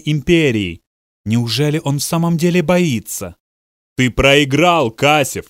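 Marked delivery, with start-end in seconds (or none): 4.0-5.5 firm, raised victory call; loud declaration. Acted. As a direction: declare his defeat out loud. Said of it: "громко произнёс маршал".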